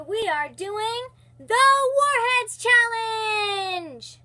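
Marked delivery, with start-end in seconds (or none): 2.0-4.2 excited announcement. Acted. Announcing the challenge title.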